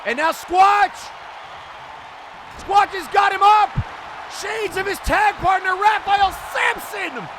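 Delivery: excited call. Real, not acted. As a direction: call the big move at full pitch. Big slam and pinfall called.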